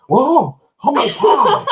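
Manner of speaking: high, laughing mock of a teen. Dad ridiculing the writers' teen dialogue, laughing. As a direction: parody the corny exclamation. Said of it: "someone would have went".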